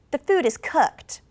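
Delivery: "cooked" falls firmly; certain falling tune. Shown as a demonstration. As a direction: state it sure, drop "cooked". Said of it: "I was sure of that one".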